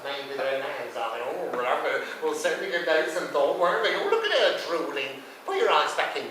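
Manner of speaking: ordinary delivery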